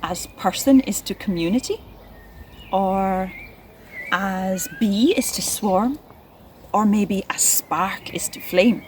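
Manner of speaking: lightly recited example lines; poem lines. Shown as a demonstration. Teacher suggesting new poem lines to children, lightly recited. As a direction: offer each line as a gentle suggestion.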